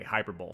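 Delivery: "Hyperbole" said "HYPER-bowl"; mispronounced "Hyperbole" as hyper-bowl; wrong hyperbole. Shown as a demonstration. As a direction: rhyme the end of "Hyperbole" with bowl. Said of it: "I definitely said hyperbole".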